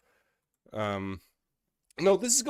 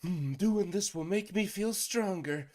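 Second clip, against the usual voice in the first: higher-pitched mock enthusiasm; mocking quote; 9 semitones higher than usual. Mocking the spell instructions to a co-host, mock enthusiasm. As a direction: mimic a naive believer in a higher voice. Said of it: "all this is, is like".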